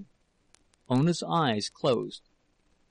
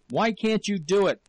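much higher, exasperated shouted question; 7 semitones higher, 4 dB louder than usual. A narrator's reading. Husband pressing wife to speak, furious shout. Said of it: "he shouted".

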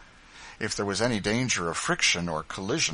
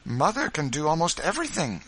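put-on young boy; 9 semitones higher, 4 dB louder than usual. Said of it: "said the boy".

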